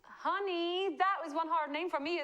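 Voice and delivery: put-on Southern "honey"; Southern American accent. Host struggling with a winner's name, Southern accent. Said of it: "South and Southern accent".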